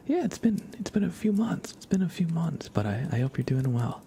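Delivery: high, lively welcome back; excited greeting. Real, not acted. Greeting returning viewer Hugo.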